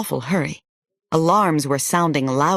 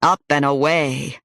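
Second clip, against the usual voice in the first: cheering shout. Acted. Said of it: "I kept shouting".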